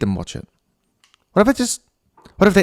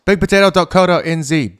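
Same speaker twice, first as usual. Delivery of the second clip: ad read; 5 semitones higher, 5 dB louder than usual. Shown as a demonstration. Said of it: "I'm halfway through an ad".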